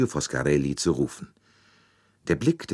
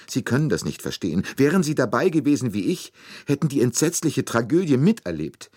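high, distraught outpouring; weeping; 7 semitones higher than usual. A narrator's reading. Nurse mourns murdered child to detective, tearfully distraught. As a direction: pour it out in tearful, raised pitch. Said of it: "noch immer weinend".

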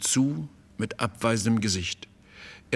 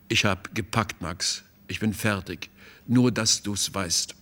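apologetic; 2 semitones lower than usual. Acted. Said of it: "sagte entschuldigend".

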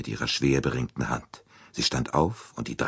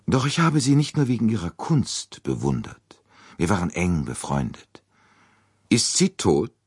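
put-on a proud old lady, higher voice, stirred by memory; old princess; 5 semitones higher than usual. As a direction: speak as the aged princess recalling dear friends. Old princess recalls her friends. (alte Fürstin, höher, bewegt erinnernd)

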